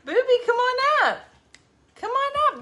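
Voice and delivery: high, loud sing-song coaxing. Real, not acted. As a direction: coax the puppy up, cooing. Calling the dog in baby talk.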